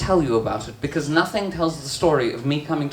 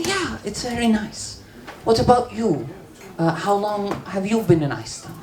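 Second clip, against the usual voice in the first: higher, chirpy chit-chat voice; polite small talk; 5 semitones higher than usual. Retold or imitated. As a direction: make polite conversation in a lifted voice. Acts own polite small talk.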